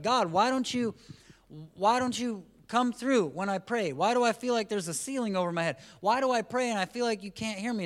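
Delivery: high, loud pleading voice; mock the frustrated pray-er; hammed-up complaint to God; whiny complaining believer.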